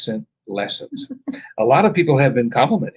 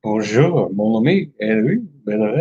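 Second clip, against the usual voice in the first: mock French accent; 5 semitones lower than usual. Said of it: "I thought they would pick French".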